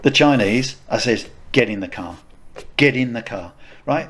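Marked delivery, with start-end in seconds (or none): 1.5-3.5 retold aggressive order. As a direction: give a restrained command, retelling your own aggression. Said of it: "I was so aggressive".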